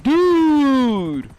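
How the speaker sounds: "Dude." held long and high on the vowel; elongated word. Shown as a demonstration. Streamer admitting to stretching words, elongated "Dude.". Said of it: "Maybe I'll elongate it".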